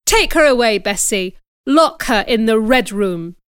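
loud, cold order; stern command. Acted. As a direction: order the maid sharply. Aunt ordering maid.

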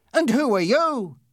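loud, high, severe demand. A narrator's reading. Policeman turning on the passenger, severe voice. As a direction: demand it sternly and loudly. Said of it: "he asked in a severe voice".

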